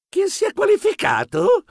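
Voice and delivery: eager question, pitched right up; curious. Acted. Reporter asking grandfather who qualified, keenly curious. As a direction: ask high, dying to know. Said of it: "chiesi curioso".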